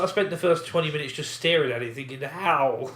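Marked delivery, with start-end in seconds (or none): 2.2-2.9 stunned. Retold or imitated. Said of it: "all I was saying".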